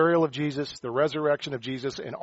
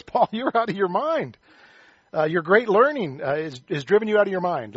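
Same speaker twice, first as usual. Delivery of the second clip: loud voice; 5 semitones higher, 4 dB louder than usual. Retold or imitated. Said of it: "Festus said with a loud voice".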